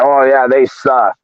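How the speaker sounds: slow, dismissive mock; mocking fans. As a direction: drawl it like a lazy hater. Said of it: "they're like".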